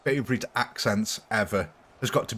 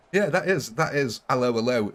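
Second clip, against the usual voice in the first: mock French accent. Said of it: "It's the officer from Hello, Hello".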